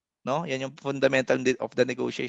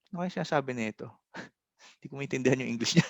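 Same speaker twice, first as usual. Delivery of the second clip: quick, soft mutter to herself, breaking into a laugh; puzzled inner muttering; 7 dB quieter, much faster than usual. Retold or imitated. Voicing a client who can't follow her English, a fast hushed mutter with a laugh. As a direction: rattle off a confused thought under your breath, laughing.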